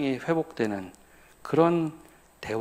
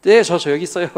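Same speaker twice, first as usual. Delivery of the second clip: put-on child answering; 5 semitones higher, 10 dB louder than usual.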